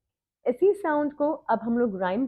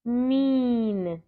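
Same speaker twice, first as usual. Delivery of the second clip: fast. Shown as a demonstration. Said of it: "slow and then fast".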